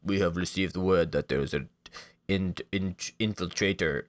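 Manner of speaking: lightly voiced henchman, stiff and formal; a hint of a guard reporting to his boss; guard announcing an intruder, lightly acted. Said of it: "a guard walks in and says".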